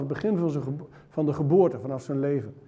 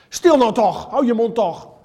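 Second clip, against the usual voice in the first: loud, higher scolding hush; crowd snapping shut up; 5 semitones higher, 7 dB louder than usual. Acted. Pious crowd rebukes the blind beggar, loud scolding hush. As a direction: silence the beggar with a louder rebuke.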